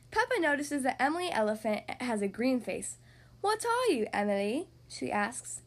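put-on lively read-aloud for little kids; storybook narration. A narrator's reading. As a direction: read it like bedtime story time. Reads picture book aloud.

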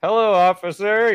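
high, loud, over-polite hello; retold sheepish greeting. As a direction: greet the police with awkward politeness. Acts himself greeting the officer.

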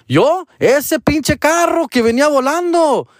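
high-pitched acted protest; retold indignant outburst. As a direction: protest in mock disbelief and anger. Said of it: "I was mad".

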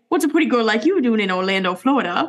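fast, lightly voiced kid; a hint of a child reciting the line; imitating a kid. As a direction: rattle it off like a kid in a TikTok. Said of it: "shit that children say".

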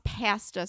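imitated Canadian vowel in "pasta". Mocking how Canadians say it, Canadian "pasta". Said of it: "He says pasta and it makes me".

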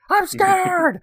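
hammed-up kid panic; mock scared kid. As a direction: wail it like a scared little boy. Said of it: "And he was like".

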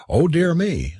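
mild, high-pitched dismay; sighing dismay. A narrator's reading. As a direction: lament it lightly, pitch lifted. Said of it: "sighed poor Mister Kent".

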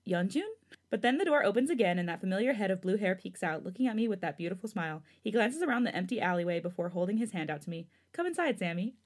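read-aloud fan fiction narration; story narration. A narrator's reading. Host reading a new chapter to listeners, story narration.

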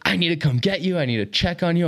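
high-pitched imitation of a frantic mom; retold freaking out. Mom to hit-and-run son, mock frantic. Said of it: "like, freaking out".

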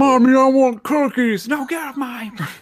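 high, squeaky child voice then a mock scolding mom; kid and mom skit. Podcast host voicing a kid and mom, hammed-up. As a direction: play a whiny kid begging, then the mom. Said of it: "She's like".

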